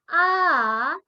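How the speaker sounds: A drawn out, dipping then climbing; third tone, falling-rising. Shown as a demonstration. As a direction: let A drop, then bring it up. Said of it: "Nada ketiga". (A nada turun lalu naik)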